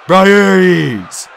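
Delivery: loud, high amazed call; awed, joyful shout; cry of wonder. A narrator's reading. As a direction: cry out a long-lost hero's name. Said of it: "Tyson cried in wonder".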